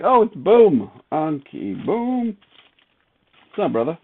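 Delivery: light up when you spot a friend; excited greeting. Retold or imitated. Streamer retelling spotting a viewer's emoji, excited and high. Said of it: "And then I was like".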